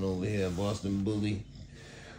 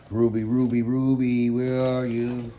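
calling the dog; 4 semitones higher, 5 dB louder than usual. Real, not acted. Owner calling his French bulldog Ruby, loud call. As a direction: call out for her across the room.

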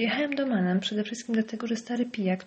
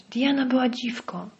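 roar; 5 semitones higher than usual. Acted. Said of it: "Ryknął".

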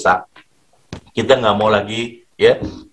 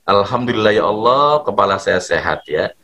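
grateful prayer; 3 semitones lower than usual. Shown as a demonstration. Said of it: "Ucapannya dengan syukur ke Allah".

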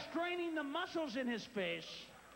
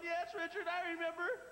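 tearful dieter. Retold or imitated. Guest telling Richard her weight story, a touch teary. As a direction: tell it like a proud, teary guest. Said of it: "She's going".

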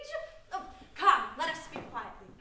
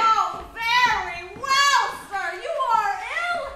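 loud, slow, higher sarcastic concession; mock agreement; 4 semitones higher, 12 dB louder, slower than usual. Servant humoring her shouting master, mock loud agreement. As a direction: shout back a sham surrender.

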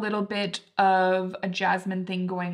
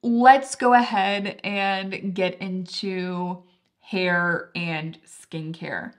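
English accent; 3 dB louder, much slower than usual. Real, not acted. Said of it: "why do I keep doing an English accent".

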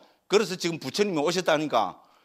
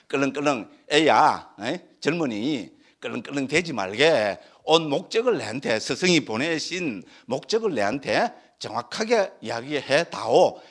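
retold patient elder, a little lower, slowing down; courteous admonishing; 3 semitones lower, slower than usual. Buddha to the unruly young student, courteous admonishing. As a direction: admonish a youngster politely and slowly. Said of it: "예의를 갖고 대합니다".

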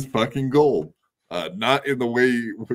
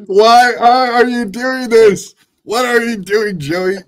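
laughing disbelief; 10 semitones higher, 8 dB louder, slower than usual. Real, not acted. Host exasperated by apology clip.

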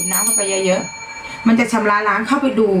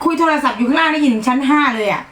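higher-pitched, annoyed grumble; real exasperation; 5 semitones higher than usual. Real, not acted. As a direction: gripe about the noisy phone call. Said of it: "ควบคุมอารมณ์ตัวเองไม่อยู่". (บ่นเสียงสูงอย่างหงุดหงิด)

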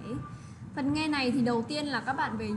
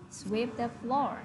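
slow and clear, a bit softer; slow model reading; 4 dB quieter, slower than usual. Shown as a demonstration. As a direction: read it slowly for pupils to copy. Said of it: "model reading for class".

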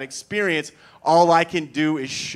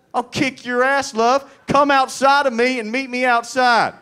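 much higher, loud challenge; shouting at love; 11 semitones higher, 7 dB louder than usual. Pretend. Man challenging love to a fight, screamed. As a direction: pick a fight with love itself.

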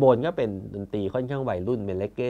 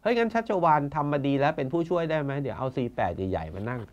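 mock official voice, pitched higher, dragging the last words; Thai bureaucrat; 3 semitones higher than usual. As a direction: playfully mimic a smug civil servant. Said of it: "แบบราชการไทยอะครับ". (ล้อเลียนน้ำเสียงข้าราชการไทย)

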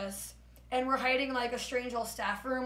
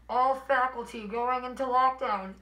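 slow, steady intercom voice, a little louder, lightly imitated; calm announcement; 4 dB louder, slower than usual. School announcer reading the lockdown call, lightly imitated calm voice. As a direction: announce it evenly like the usual drill. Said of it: "they went from a calm".

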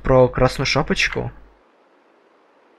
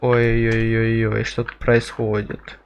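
low slow character voice; 4 semitones lower, slower than usual. Acted. Voicing a game character.

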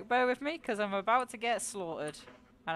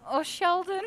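high, louder, tearful laughing voice; crying with laughter; 9 semitones higher, 7 dB louder, slower than usual. Real, not acted. Streamer laughing at a chatter, tearfully. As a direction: wail the name through giggles.

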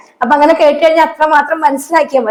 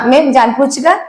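slow model; slower than usual. Shown as a demonstration. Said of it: "okay, ആ".

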